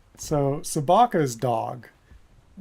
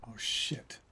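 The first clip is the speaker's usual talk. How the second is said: breathy startled whisper; real whispered alarm; 5 semitones lower, 9 dB quieter than usual. Real, not acted. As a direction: hush it under your breath. Sudden danger in game.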